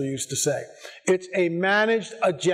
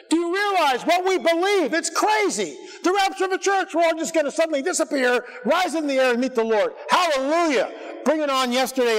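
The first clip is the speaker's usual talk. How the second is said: excited preaching; 9 semitones higher than usual. Real, not acted. Preacher marvelling at the rapture to his congregation, high and excited. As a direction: lift it up in wonder.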